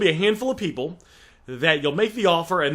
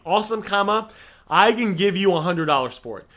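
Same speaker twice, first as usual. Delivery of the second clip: positive and upbeat. Shown as a demonstration. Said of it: "Awesome is positive and upbeat".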